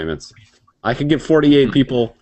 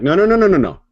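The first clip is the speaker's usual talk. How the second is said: cutting him off, talking over Dick; insistent retort; 4 dB louder, faster than usual. Retold or imitated. Retelling the argument to Dick, an insistent raised protest. Arguing with Dick about licenses.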